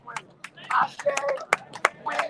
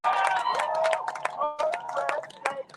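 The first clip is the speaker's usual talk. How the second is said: drawn-out call; 14 semitones higher, 4 dB louder, much slower than usual. Real, not acted. Rally speaker urging votes.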